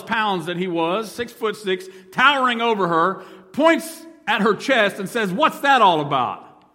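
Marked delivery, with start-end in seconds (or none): 5.3-6.6 mildly angry challenge. Retold or imitated. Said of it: "in a kind of angry tone".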